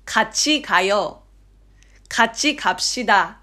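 even, careful pronunciation-drill delivery; textbook flat. Shown as a demonstration. Demonstrating textbook audio, flat and stiff. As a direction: read it out neatly with no coaxing. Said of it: "平坦になりがちなんですよね".

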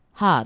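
「歯」 drawn out as "haa"; lengthened vowel. Shown as a demonstration. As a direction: stretch 「歯」 into a long vowel, Osaka style. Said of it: "こう伸ばすんですよね". (「歯」を「はー」と伸ばす)

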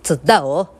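put-on British-accented opening catchphrase; Mark impression. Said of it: "マークくんのモノマネもできるんですけど".

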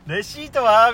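imitating the clerk's sing-song receipt question; chirpy clerk. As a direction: ask it like a cheerful hello. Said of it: "「こんにちは」みたいなテンションで".

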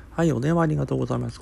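clumsy, rushed call-centre greeting; a fumbled operator greeting; customer service voice. Shown as a demonstration. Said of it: "ちょっと今下手くそだ".

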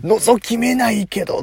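teasing reply to own slip; mock retort. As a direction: drawl 覗きめない back at yourself. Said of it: "つって".

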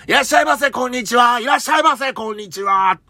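high, sing-song shop greeting; customer service voice. Retold or imitated. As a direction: call out like a shop clerk. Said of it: "ブックオフだと山彦挨拶".

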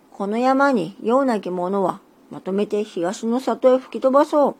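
hide the softness behind a curt tone; deliberately curt. Acted. Big tengu pretends not to care, sending them off, mock curt. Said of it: "わざとそっけなく".

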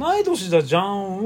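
同い年だじゃん said slowly with standard Japanese pitch; slow standard intonation. Shown as a demonstration. Checking aloud whether the phrase is standard, slow standard intonation. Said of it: "イントネーションは標準語だけど".

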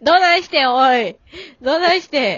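loud, rough "hey, what's up with you"; gruff senior's catchphrase. Retold or imitated. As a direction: call out like a tough senior comedian. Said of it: "おい、おいっていうやつ".

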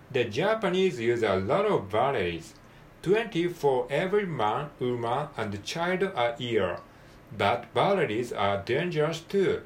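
slow, careful English model reading; deliberate textbook reading, word by word; read-through for learners. Shown as a demonstration. Teacher reading the new page once through, slow and measured. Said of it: "一回読んでみます".

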